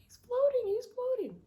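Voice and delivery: put-on high, loud, panicky kid; frightened child shouting. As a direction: yell it like a terrified child pointing. Child pointing, screaming to grandma.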